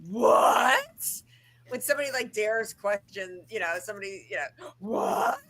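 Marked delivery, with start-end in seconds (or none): 0.1-1.2 shocked high mock "What?"; pearl-clutching gasp. Mocking a housemate's shocked pearl-clutching What. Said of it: "clutches her pearls and goes". 4.8-5.4 lightly mocked shocked "What?"; a hint of an offended gasp; pearl-clutching What. Mocking a housemate's offended reply, lightly shocked. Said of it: "clutches her pearls and goes".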